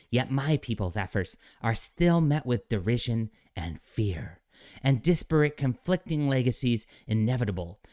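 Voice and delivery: lightly voiced earnest alien rock being; a hint of a mock sincere rock creature; mocking soy voice. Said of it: "I'll read it in soy voice because this is like a soy rock being".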